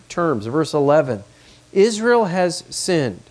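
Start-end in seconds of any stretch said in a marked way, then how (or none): 1.7-3.2 slow and higher, "Israel" stressed hard; emphatic. Shown as a demonstration. Preacher reading God's words, slow emphatic stress on "Israel". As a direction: lean on "Israel", each word weighty. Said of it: "It's very emphatic".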